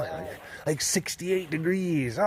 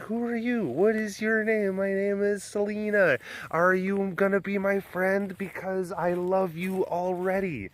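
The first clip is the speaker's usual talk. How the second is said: a hint of a smitten young lioness; voicing the lion Selena; 4 semitones higher than usual. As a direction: give the cat a gentle, adoring little voice. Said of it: "saying, like".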